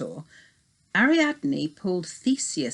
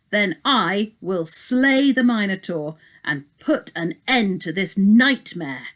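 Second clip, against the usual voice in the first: firm, louder hero making a stand; determined young warrior; 4 dB louder than usual. Acted. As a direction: speak up boldly to your father the king. Theseus declares his plan.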